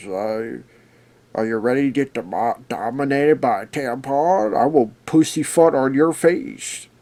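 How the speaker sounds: furry puppet monster voice. Retelling a scene where a lady starts talking like Grover: Grover voice. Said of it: "I'm gonna talk like this".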